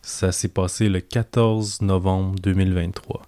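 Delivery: deep, captivating radio announcer voice. Shown as a demonstration. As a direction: read it like a hypnotic late-night radio host. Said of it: "ma voix la plus, euh, grave et, euh, envoûtante".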